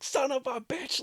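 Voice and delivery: imitating mom's shrill curse; exasperated mom curse. Imitating mom cursing the flooding house, shrill.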